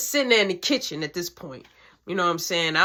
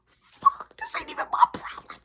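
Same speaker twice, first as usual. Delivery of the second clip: mock grumble. Narrator's retold grumble.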